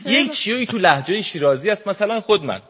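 put-on Shirazi accent. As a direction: speak like a laid-back man from Shiraz. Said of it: "سعی کردم امروز با لهجهٔ شیرازی صحبت کنم". (لهجهٔ شیرازی شل و کشیده)

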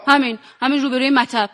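put-on Persian with an Azeri Turkish accent; Ardabili Turkish accent. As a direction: play it with a light Ardabil accent. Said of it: "یه مقدارشو با لهجه بازی بکنید".

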